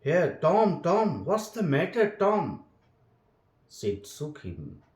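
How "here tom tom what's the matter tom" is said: anxious. A narrator's reading. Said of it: "looked in his face anxiously".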